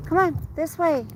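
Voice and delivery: high coaxing call to the dog; sing-song come on to the dog. Real, not acted.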